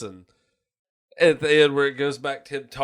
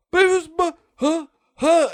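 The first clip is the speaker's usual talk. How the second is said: stammered shock; 4 dB louder than usual. Retold or imitated.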